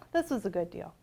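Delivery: secretive whisper. A narrator's reading. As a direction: let the listener in quietly. Whispered aside.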